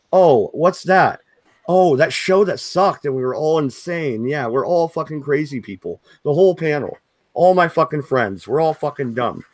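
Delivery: dripping sarcasm, mock innocence; sarcastic. Real, not acted. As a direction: throw their words back mockingly. Mocking the insult he received.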